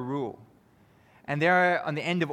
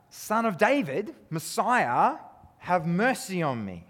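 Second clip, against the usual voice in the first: retold desperate scream; 5 semitones higher, slower than usual. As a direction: call out to the passing Messiah, pleading. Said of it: "and so he screams out".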